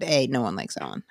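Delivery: low, soft retold gossip; hushed confiding. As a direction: pass it on low and quiet, like a confidence. Retold gossip about Ellen.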